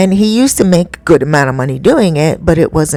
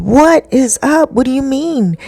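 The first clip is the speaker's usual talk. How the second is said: retold alarmed disbelief; 8 semitones higher than usual. Boyfriend hearing the son almost drowned, retold alarmed disbelief. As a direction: act out his shock, pitched up.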